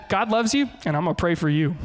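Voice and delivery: a touch of smug, pointed blessing; mildly snide God loves you; preacher mocking his own passive-aggressive past self. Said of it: "that was super awful".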